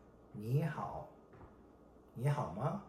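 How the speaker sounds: friendly, softly spoken "你好吗"; optimistic greeting. Shown as a demonstration. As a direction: greet a friend gently and positively. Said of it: "is optimistic".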